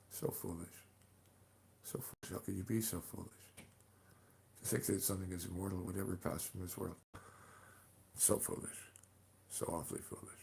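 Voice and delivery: quiet, fading ominous taunt; hushed dark lord voice. Pretend. Taunting mortals as an ancient being.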